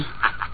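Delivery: soft breathy laugh; amused chuckle. Acted. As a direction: chuckle at his annoyance. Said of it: "you've had your belly laugh".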